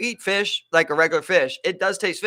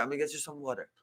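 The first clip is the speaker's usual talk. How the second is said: put-on hushed Italian-accented waiter; a light imitation of an Italian accent; 3 semitones lower, 12 dB quieter than usual. Waiter seating the guests, soft Italian accent. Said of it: "all in, like, an Italian accent".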